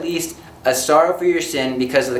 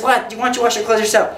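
higher, indignant retort; mock indignant wife; 6 semitones higher than usual. Wife to husband who blamed her, mock indignant retort. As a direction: toss it back at him, offended. Wife snaps back in quarrel.

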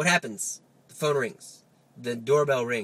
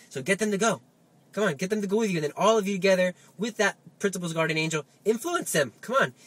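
urging on; 4 semitones higher than usual. Retold or imitated. Urging his guardian angel to act.

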